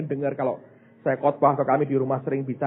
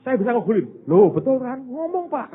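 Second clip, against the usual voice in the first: put-on much higher and louder, a child's insistent voice; voicing his little daughter; 12 semitones higher, 9 dB louder than usual. Pastor voicing little Sasa demanding he cheer, high and insistent. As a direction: play the five-year-old who must win.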